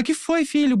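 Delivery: high-pitched imitation of an alarmed mom; worried mother. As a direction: voice a mother fretting over her child. Mother's alarmed question, retold.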